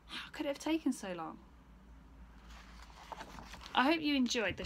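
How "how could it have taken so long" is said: cross mother. Acted. Mother scolds Stephen for being so late, loud and cross. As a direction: tell him off, counting items slowly.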